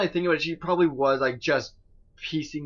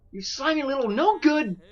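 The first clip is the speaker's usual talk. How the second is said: mock insult; 10 semitones higher, 3 dB louder than usual.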